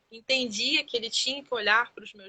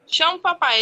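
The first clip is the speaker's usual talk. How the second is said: put-on coaxing child; 6 semitones higher, 7 dB louder than usual. Mother coaxing her son to call his father, high sing-song. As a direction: coax the toddler to say papai. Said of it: "eu ficava assim".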